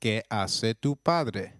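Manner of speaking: slow, clear Spanish model phrase; careful teacher demo pace; slow model sentence. Shown as a demonstration. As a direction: say it slowly for the learner to copy. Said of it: "translates to".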